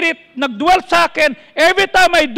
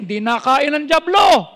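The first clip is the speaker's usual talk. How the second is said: preaching shout; 2 semitones lower than usual. Real, not acted. Pastor shouting to his congregation about the devil. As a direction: shout it out to the church.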